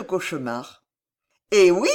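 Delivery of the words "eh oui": gently. A narrator's reading. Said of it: "dit gentiment Paquette".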